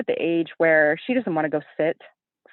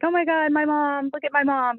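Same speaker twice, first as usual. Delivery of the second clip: proud daughter; 8 semitones higher than usual. Retold or imitated. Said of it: "and she's like".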